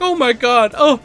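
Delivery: mock fainting old lady. Mocking the old neighbor's fake heart attack, hammed-up high. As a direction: clutch your chest and overplay the panic. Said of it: "She's like".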